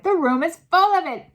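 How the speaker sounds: very high, loud shout; loud shrill. A narrator's reading. Witches shrieking at the smell, high and loud. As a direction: shriek it in outrage.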